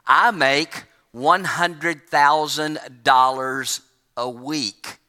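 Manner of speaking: slow, unbothered and calm; calm castaway reassuring his panicking friend. Retold or imitated. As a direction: lean back and say it like nothing's wrong. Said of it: "calmly looked at him and said".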